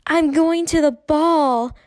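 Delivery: put-on high, slow little-girl doll voice; high pretend voice. A narrator's reading. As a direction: play a doll in a squeaky high voice. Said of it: "she announced in a high pretend voice".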